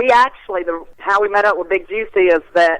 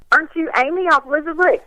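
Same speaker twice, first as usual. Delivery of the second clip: attempted Australian accent; 8 semitones higher than usual. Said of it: "I don't know how to do the little accent".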